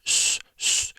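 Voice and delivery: soft s with the tongue far back; two short hisses between s and sh; retracted S hiss. Shown as a demonstration. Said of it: "more of a retracted S".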